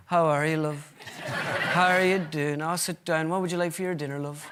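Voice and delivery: put-on lightly done gentle Donegal accent doting on his wife; a hint of Donegal charm, sweet and fussing; impression of a singer. Husband comes home and fusses over his wife, in a light Donegal accent. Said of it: "Donegal's singer".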